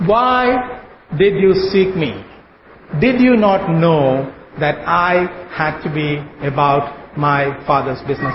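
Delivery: slow, measured words of Jesus; slow reverent reading, dropping at the end; solemn scripture quote. Retold or imitated. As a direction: let each word land gently and gravely.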